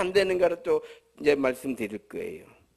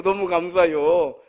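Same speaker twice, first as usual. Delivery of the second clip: slower heartfelt thanks; 3 semitones lower, 4 dB louder than usual. Acted. Second, echoed thank-you.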